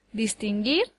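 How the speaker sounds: distinguir with the accent on its final syllable, distin-GUIR; stress on last syllable. Shown as a demonstration. Teacher shows where the accent falls, distinguir stressed on the last syllable. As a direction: land on the end of distinguir. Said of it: "lleva el acento en la última sílaba".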